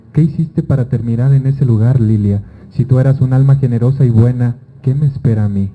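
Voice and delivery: measured, lightly dramatic reading of a letter to the dead; story reading. Acted. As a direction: read it like an intimate letter to a lost love. Reads her story aloud.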